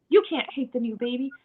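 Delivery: gently correcting, stress on "You"; mild contradiction. Acted. Parent corrects child who hates the new baby, mild contradiction. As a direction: tell the child they're wrong, mildly. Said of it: "telling them that's wrong".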